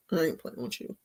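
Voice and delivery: low quiet mock dog reply; voicing the dog.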